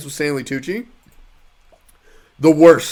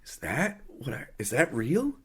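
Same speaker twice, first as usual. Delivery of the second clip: disbelief; 3 semitones lower, 12 dB quieter than usual. Retold or imitated. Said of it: "I was like".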